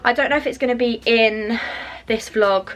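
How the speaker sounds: breathless and winded; out of breath. Real, not acted. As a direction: speak between quick breaths. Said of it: "I'm so out of breath".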